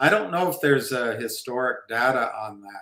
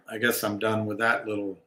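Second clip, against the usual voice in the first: ordinary talk, nothing marked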